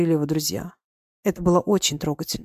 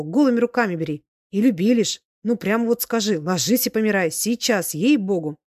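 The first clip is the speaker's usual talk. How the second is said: higher, emphatic peasant oratory; lightly voiced tipsy old man, fervent; 3 semitones higher than usual. Old soldier praises his general to the crowd, fervent oratory. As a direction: hold forth in short, admiring bursts.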